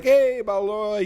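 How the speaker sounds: high, slow, breezy greeting as the doctor; nonchalant doctor. Retold or imitated. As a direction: drawl the name out like nothing bothers you. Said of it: "very fucking nonchalant".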